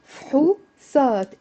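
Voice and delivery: فحوصات split into fhu, saat; two syllables. Shown as a demonstration. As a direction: break فحوصات in two, no vowel after f. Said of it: "It's two syllables".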